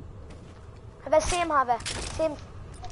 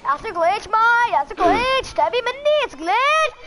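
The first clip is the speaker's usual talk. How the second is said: higher, playful British copy; imitated British accent; 5 semitones higher than usual. Echoing the teammate's glitch line, imitated British accent. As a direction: parrot it in an attempted British accent.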